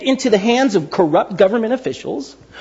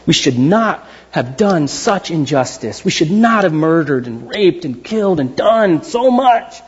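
slow, repentant confession; slow, contrite admission of guilt; remorseful king; 4 semitones lower, slower than usual. Retold or imitated. Nineveh's king repenting before God, slow and contrite. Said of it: "The king on down says".

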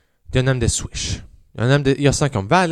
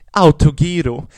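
mock heckle; 3 semitones higher, 7 dB louder than usual. Woman heckles him.

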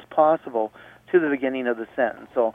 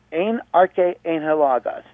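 slow Greek reading; 4 semitones higher than usual. Shown as a demonstration. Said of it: "So, one more time".

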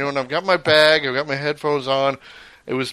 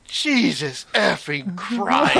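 slow, drawn-out annoyed oath; exasperated curse; 4 semitones higher, much slower than usual. Retold or imitated. Traveler at airport exit curses at blocking crowd, slow and annoyed. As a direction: let it out slowly in frustration. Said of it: "don't realize how loud I say it".

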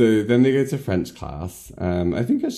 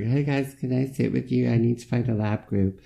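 higher, lightly voiced hopeful girl; mock polite newcomer; 5 semitones higher than usual. Friend voicing newcomer asking to join lab group, mock polite. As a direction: ask politely in a raised voice.

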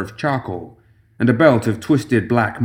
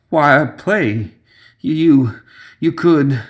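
put-on frightened old man; 5 semitones higher, much slower than usual. Frightened man pleading, voiced.

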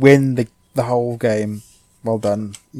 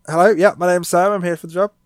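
higher, louder cheery interview voice; job interview voice; 5 semitones higher, 4 dB louder than usual. Pretend. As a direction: pretend to greet the interviewer. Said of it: "I'm like".

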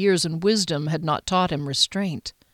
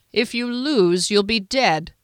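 menacing lord; 4 semitones higher, 3 dB louder than usual. Acted. The Duke to his knight, deadly final threat. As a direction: land LOSE with a cold falling finality.

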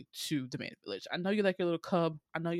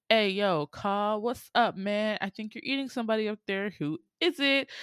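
casual tiger; 4 semitones higher, 3 dB louder than usual. Retold or imitated. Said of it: "and he's like".

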